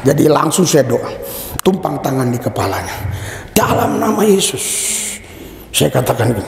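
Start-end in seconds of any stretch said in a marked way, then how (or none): 3.5-4.6 mildly raised praying voice; re-enacted prayer. Preacher recalls praying over the officer's head, raised prayer voice. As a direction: recreate a solemn invocation, pitched higher.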